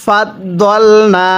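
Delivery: দল with a short vowel, not দাল, said slowly; correct recitation. Shown as a demonstration. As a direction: keep দল short, never stretch it to দাল. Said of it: "দতকে দাল পড়লে পড়াটা সহি শুদ্ধ হবে না". (দল ছোট করে, দাল নয়)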